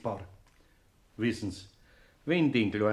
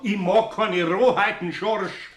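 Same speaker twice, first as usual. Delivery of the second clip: raised, louder reproach; indignant; 5 semitones higher, 6 dB louder, slower than usual. Acted. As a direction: Eder scolding Schorsch for his roughness, indignant. Eder scolds his friend.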